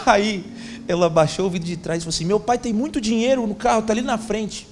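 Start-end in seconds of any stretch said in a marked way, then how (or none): 2.2-4.7 put-on high, building to a loud child's call; eager girl pushing her dad to give; excited daughter. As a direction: daughter calls to the seller, growing louder. Daughter urging from back window.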